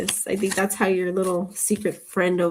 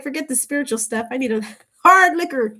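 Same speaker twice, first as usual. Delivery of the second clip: mock exasperated; 4 semitones higher, 5 dB louder, faster than usual. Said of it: "She was like".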